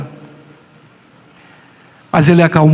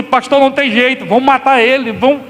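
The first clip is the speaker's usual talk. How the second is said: worried father; 6 semitones higher than usual. Retold or imitated. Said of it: "Eu vi do pai aqui e falo assim".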